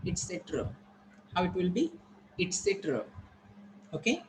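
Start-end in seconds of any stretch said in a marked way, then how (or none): 0.1-0.7 "et cetera" ending on a weak "uh"; weak final A. Shown as a demonstration. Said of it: "Weak A is here". 2.4-3.0 "Et cetera" with close first vowel and weak final A; teacher's model "Et cetera", ending weakly; correct pronunciation. Shown as a demonstration. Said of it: "this is its correct pronunciation".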